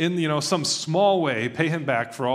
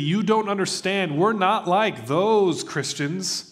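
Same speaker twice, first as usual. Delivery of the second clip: higher, louder pleading proclamation; a hammed-up cry to be seen as cool; mock shout; 6 semitones higher, 4 dB louder, slower than usual. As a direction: protest to the whole city, half-joking. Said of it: "I wanted to shout to everybody in the city".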